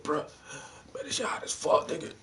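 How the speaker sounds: breathy whisper, no voice. Retold or imitated. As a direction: whisper it like a secret. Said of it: "He start whispering and shit".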